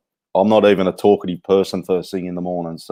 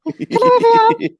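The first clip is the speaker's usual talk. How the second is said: high squeaky laugh; 6 dB louder than usual. Real, not acted. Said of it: "your big squeaky voice".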